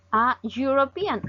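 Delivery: slow "A European" with a Y sound opening "European"; initial consonant sound. Shown as a demonstration. Teacher shows another consonant sound, slow initial Y glide. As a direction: say "European" slowly, starting like "you". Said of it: "otro sonido de consonante".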